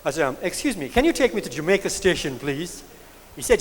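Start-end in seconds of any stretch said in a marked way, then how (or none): 0.4-2.8 a touch of careful, proper West Indian English, quieter; lightly posh English with Jamaica Station said neatly; best English. Retold or imitated. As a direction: put on your politest schoolroom English for the driver. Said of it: "I put on my best English".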